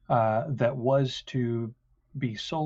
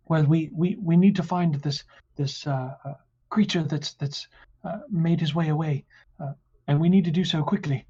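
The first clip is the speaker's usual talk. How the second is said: higher, louder, hurried; urgent guard; 5 semitones higher, 3 dB louder, faster than usual. Acted. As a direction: press the need to hurry.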